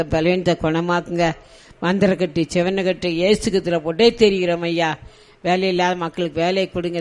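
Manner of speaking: builds from firm to loud, commanding prayer; loud deliverance prayer growing in force; building fervent prayer. Real, not acted. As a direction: push harder with each healing command.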